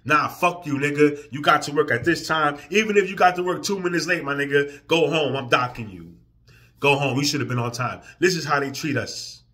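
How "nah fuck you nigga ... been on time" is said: mock harsh boss.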